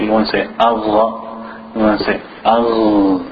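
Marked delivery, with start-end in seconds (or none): 0.0-1.2 ghain followed by a short "a" in Allah; error de pronunciación. Shown as a demonstration. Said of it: "you don't want to say like a fatha". 2.4-3.2 "al" with the final ghain held, no vowel after. Shown as a demonstration. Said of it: "You hold it".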